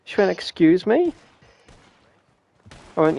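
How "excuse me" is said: higher, rising disbelief; affronted mum. Retold or imitated. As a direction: imitate a mum taken aback. Mum reacts to blunt news.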